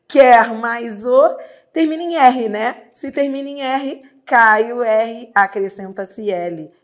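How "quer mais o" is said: "Quer mais o" slow and louder; slow demo. Shown as a demonstration. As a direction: draw out "Quer mais o" word by word.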